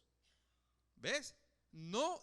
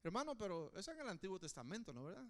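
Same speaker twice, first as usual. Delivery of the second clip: mock objection; 3 semitones lower, 6 dB quieter, much faster than usual. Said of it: "tú vas a decirme".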